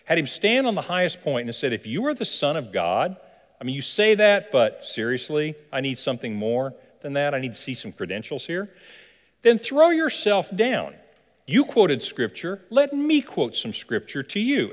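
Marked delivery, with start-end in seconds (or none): 1.7-8.7 taunting devil. Acted. Devil challenges Jesus on temple top. 9.4-10.9 higher, louder and slow taunt; mocking dare. Devil dares Jesus from the temple top, loud slow taunt. 11.5-14.7 taunting devil. Acted. Devil challenges Jesus on temple top.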